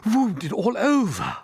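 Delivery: slow, high complaining voice; milk the pain slowly; groaning. A narrator's reading. Centipede listing his injuries, slow groaning. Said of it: "groaned the centipede".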